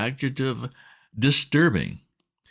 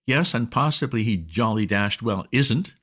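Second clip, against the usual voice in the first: put-on agitated young master; 6 semitones higher than usual. A narrator's reading. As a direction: splutter the news at the butler. Bertie agitated to Jeeves.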